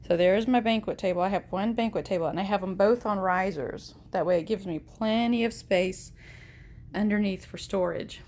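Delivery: slightly out of breath; breathing heavily. Real, not acted. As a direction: talk with heavy breathing between words. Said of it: "Excuse me if I'm breathing heavy".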